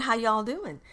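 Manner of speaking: light, playful country twang; country accent. Real, not acted. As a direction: greet them with a touch of country accent. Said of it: "I'm talking with, like, a country accent".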